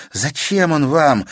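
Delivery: put-on girl crying out a question at the countess; exclaiming. A narrator's reading. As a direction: cry out the question. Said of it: "воскликнула Катерина".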